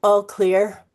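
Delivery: loud, slow announcement with an odd edge; a hint of a tense school PA; intercom announcement. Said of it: "Claire's voice has an odd edge".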